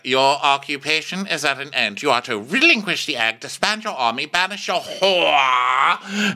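high, pompous official decree, stretched at the end; Otto. Acted. Royal envoy issuing demands, pompous proclamation. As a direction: proclaim it in mock grandeur, rising high. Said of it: "And Otto's like".

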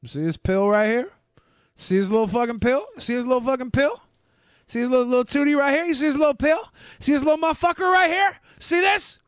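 lightly voiced Putin, building to a high taunt; mock menacing Putin. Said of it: "he just walks up like".

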